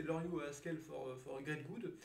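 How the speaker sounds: English book title in a French accent. Real, not acted. Teacher names an English guide for viewers, French-accented English. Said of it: "vous entendez un petit peu mon magnifique accent anglais".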